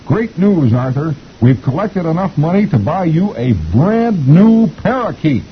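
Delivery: put-on very high, slow little-girl voice. A narrator's reading. Girl gives Arthur the good news, high and excited. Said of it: "The little girl says".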